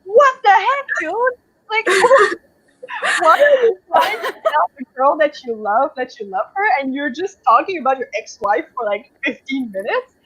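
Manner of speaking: high, incredulous outburst breaking into laughter; exasperated disbelief. Retold or imitated. Reader ranting about the hero's rain speech, laughing incredulity. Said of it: "I was just like".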